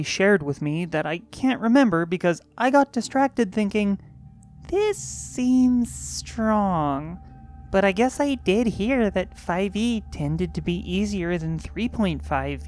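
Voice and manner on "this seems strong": slow wary thought. Retold or imitated. Inner thought, drawn out.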